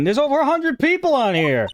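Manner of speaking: exasperated high whine. Acted. Detective exasperated at list.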